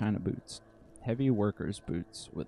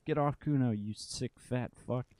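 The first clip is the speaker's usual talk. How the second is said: put-on kid yelling insults; 4 semitones higher than usual.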